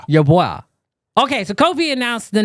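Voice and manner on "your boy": put-on "Your boy." with "boy-ah" stressed; correct pronunciation. Shown as a demonstration. Host modelling the name for his co-host, "boy-ah". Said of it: "why are you saying La Boya?".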